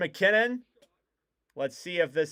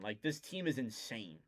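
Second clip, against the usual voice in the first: hushed awe; 5 semitones lower, 12 dB quieter than usual. Real, not acted. Awed aside.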